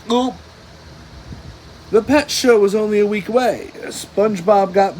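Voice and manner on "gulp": nervous gulp. A narrator's reading. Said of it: "Gary gulped nervously".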